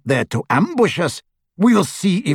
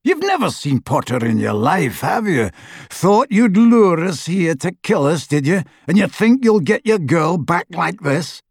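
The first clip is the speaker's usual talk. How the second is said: mildly raised rough rant; angry accusation; 4 semitones higher than usual. A narrator's reading. Death Eater accusing father of luring them, angry. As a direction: challenge him with scornful tag questions. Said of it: "shouted the wizard named Selwyn".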